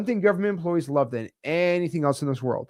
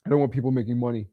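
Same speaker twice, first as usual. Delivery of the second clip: huffy clerk; 3 semitones lower than usual. Retold or imitated. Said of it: "get stick up their butt and say".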